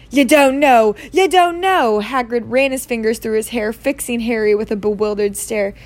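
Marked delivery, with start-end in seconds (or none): 0.1-2.0 stunned disbelief. A narrator's reading. Hagrid in disbelief.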